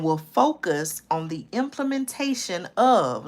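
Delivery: slow down and spell it out for them; slow reading. Shown as a demonstration. Rereading the plan slowly so viewers catch it. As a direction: read it slowly, word by word. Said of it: "I'm gonna read it slowly".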